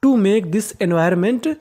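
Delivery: very slow, word by word; slow dictation. Shown as a demonstration. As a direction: read the sentence slowly for the class. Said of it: "reading the full sentence". (बहुत धीरे-धीरे वाक्य पढ़ना)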